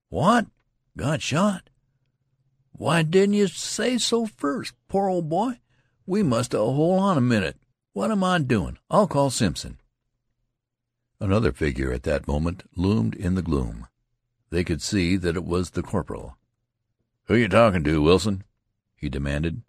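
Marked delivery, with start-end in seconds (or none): 0.1-9.8 much higher, flustered and anxious; alarmed concern. Acted. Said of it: "stepped forward quickly". 17.2-18.4 louder gruff challenge; anger-toned demand. Acted. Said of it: "His voice was anger-toned".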